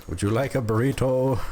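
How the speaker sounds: lightly put-on Spanish accent; attempted Spanish accent. Shown as a demonstration. Streamer trying an accent on a viewer's request, attempted Spanish accent. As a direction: try English with a Spanish accent. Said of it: "Do a Spanish accent then?".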